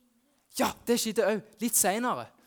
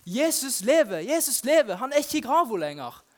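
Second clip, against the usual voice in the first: higher, louder joyful calling; crowd calling out; 4 semitones higher, 5 dB louder than usual. Retold or imitated. Townspeople running through the streets, calling out joyfully.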